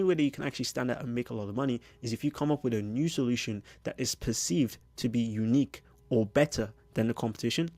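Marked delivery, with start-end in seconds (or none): 3.1-6.7 "perceived" given the main stress in the phrase; emphasis on perceived. Shown as a demonstration. Coach stressing "perceived" to his viewers. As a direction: lean hard on "perceived". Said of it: "very big emphasis on the word perceived".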